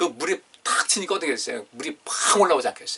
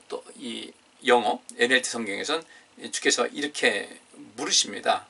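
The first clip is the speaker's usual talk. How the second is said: usual speaking voice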